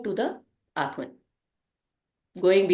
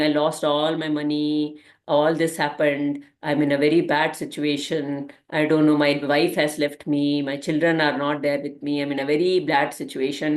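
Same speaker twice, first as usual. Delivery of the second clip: retold lament; 7 semitones lower than usual. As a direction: voice the man's misery, a little dragged out. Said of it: "he's crying".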